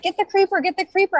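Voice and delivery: high, loud excited gamer shout; friend's gaming call. Retold or imitated. Friend gaming with her son, excitedly yelling. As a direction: call it out mid-game like a kid. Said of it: "his friend was like".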